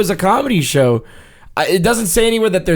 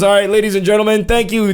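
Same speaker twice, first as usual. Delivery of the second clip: announcer voice; 5 semitones higher, faster than usual. Retold or imitated. Announcer intro retold.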